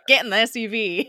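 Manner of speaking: mock American tough guy accent; badly faked American accent; fake American accent. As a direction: imitate a terrible American accent, amused. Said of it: "He has this terrible American accent".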